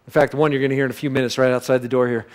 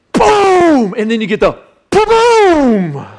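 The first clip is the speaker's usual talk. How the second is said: much higher, loud shouted boom; booming splash yell, slowed; big boom; 12 semitones higher, 9 dB louder, much slower than usual. Acted. Acting the splash.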